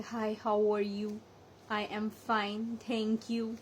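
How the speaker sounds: relaxed, slow American English demo; American accent. Shown as a demonstration. Teacher demonstrating a simple American accent. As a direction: say it the easy American way. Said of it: "Like जैसे".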